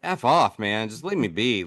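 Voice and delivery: a weary spirit brushing off visitors; fed-up ghost. Pretend. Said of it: "if I was a ghost, I'd be like".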